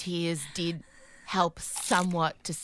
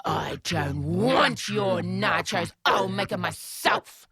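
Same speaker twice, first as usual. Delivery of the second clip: petulant refusal; 2 semitones lower, 3 dB louder, slower than usual. Retold or imitated. Refusing daughter's nachos.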